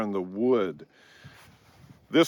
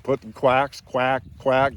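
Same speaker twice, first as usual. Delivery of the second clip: duck call quacks. Shown as a demonstration. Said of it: "just putting quacks together".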